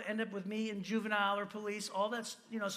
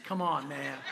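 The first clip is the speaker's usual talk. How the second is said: coaxing best friend; 6 semitones lower than usual. Retold or imitated. Friend tempting Chris at college, low hushed coaxing. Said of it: "He goes".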